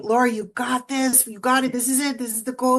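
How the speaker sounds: cheering a fighter on from ringside, mildly; team cheering. Retold or imitated. Team cheering their fighter between rounds, lightly retold. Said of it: "cheering me on and saying".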